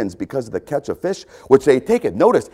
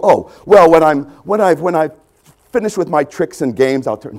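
mock excuse; 3 semitones higher, 6 dB louder than usual.

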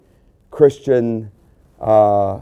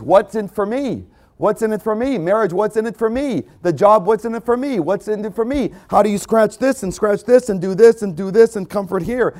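mock selfish voice; 6 semitones higher than usual. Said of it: "Everything in the world is".

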